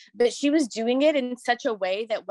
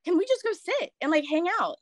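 pleading to mom; 4 semitones higher than usual. Retold or imitated.

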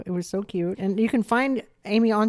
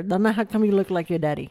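lightly imitated Asian mother's accent; puzzled question in a mock Asian accent; Asian mom's accent. Asian mom asking her child about looking like daddy, imitated accent. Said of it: "my cute little Asian mom".

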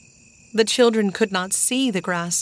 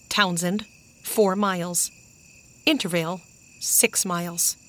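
measured signpost reading; reading a sign aloud. A narrator's reading. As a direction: read out each item separately, with pauses. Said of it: "read Henry aloud".

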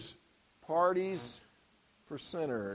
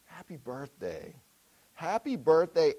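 a louder mock party yell; retold scream; 3 dB louder than usual. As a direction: call it out like a surprise crowd. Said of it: "they all scream".

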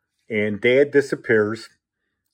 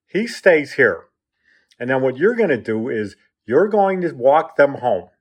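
firm orders; 3 semitones higher, 3 dB louder than usual. Retold or imitated. Mother ordering her husband to walk them home, firm. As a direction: retell a mother laying down the law.

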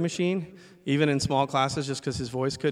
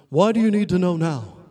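higher and louder, challenging; challenging question; 5 semitones higher, 6 dB louder than usual. Retold or imitated. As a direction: press him sharply. Teacher challenging the student.

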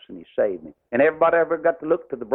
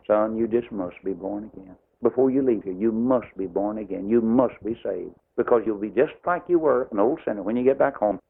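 compassionate; 3 semitones lower than usual. Shown as a demonstration. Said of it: "the attitude y'all ought to take".

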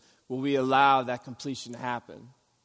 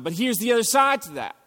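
ordinary talk, nothing marked

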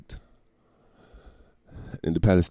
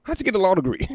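incredulous inner voice; 12 semitones higher than usual. Retold or imitated. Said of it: "I'm like".

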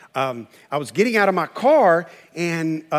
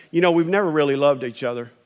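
quick, muttered, resigned complaint; imitating a bitter spouse; 5 semitones lower, faster than usual. Spouse grumbling about the marriage, low and quick. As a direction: toss it off low and fast, fed up. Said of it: "what you're gonna hear out of your mouth is".

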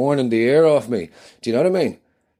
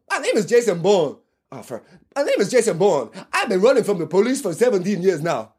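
intense, higher action-hero growl; Jason Bourne voice; 7 semitones higher than usual. Acted. Guest insisting he is Jason Bourne, intense action-hero voice. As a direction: play the brooding spy, dead serious. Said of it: "Matt, rein it".

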